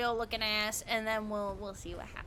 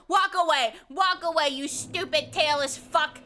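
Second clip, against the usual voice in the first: loud, irritated taunt; mean outburst; 2 semitones higher, 3 dB louder than usual. Real, not acted. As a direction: tell off the fleeing enemy. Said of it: "That was very mean".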